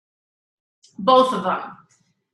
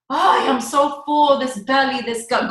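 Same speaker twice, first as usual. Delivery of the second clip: mock complaining. Coach imitating coworkers venting about weight, mock complaining.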